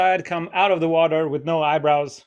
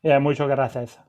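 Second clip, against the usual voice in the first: Valencia and gracias with a showy Spanish th; mock Spanish accent. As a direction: mimic the show-off traveller's lisped Spanish. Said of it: "just say it like a normal person".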